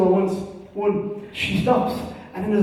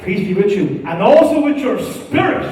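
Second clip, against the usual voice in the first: new mass response; 3 semitones higher, 5 dB louder than usual. Retold or imitated. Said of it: "If you get caught saying that now".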